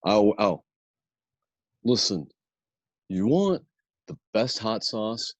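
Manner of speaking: Michigan salesman opening a pitch; Michigan accent. Acted. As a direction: put on a Michigan accent, broken into short phrases. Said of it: "I'll do the Michigan accent".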